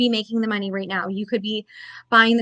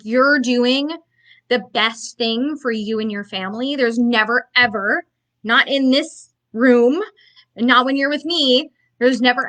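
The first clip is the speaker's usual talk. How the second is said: ordinary talk, nothing marked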